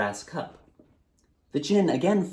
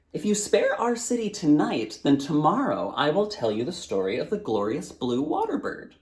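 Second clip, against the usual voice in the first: put-on higher, coaxing child's voice; boy bargaining; 5 semitones higher than usual. Boy bargains with the djinn, lightly higher and coaxing. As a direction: dangle the next story like bait.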